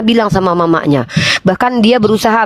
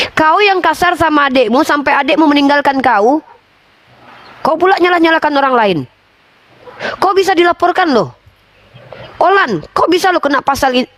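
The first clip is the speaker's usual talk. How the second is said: rising, higher-pitched reproach, pressing harder; heated scolding; 5 semitones higher than usual. Real, not acted. Friend scolding Olan for hurting her family, heated rising rebuke.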